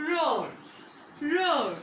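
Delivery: teacher drilling "roar"; drill repetition. Shown as a demonstration. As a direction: roar said firmly for class to repeat. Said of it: "Say with me for several times".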